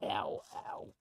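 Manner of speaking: breathy pained "ow" wince; wincing from sore muscles. Real, not acted. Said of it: "Oh, I'm so sore".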